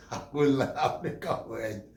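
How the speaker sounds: very slow, stretched mock announcement; drawn out. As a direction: drag every sound of it out for laughs. Drawn out comic repeat.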